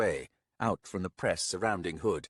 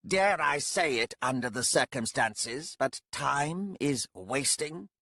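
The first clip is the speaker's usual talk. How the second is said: higher, slow ironic nudge; wry impatient voice; 6 semitones higher, slower than usual. Acted. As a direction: drawl the hint of impatience. Speaker urges, voiced figure.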